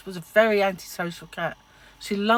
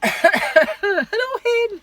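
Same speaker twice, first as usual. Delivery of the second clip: high, loud Scottish hello; Scottish greeting; 13 semitones higher, 8 dB louder, much slower than usual. Retold or imitated. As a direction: call it out like a Glaswegian. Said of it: "from Scotland".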